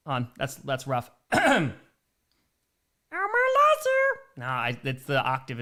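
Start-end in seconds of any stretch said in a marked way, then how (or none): 1.3-4.1 hoarse from yelling. Pretend. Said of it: "My voice is a little bit shot".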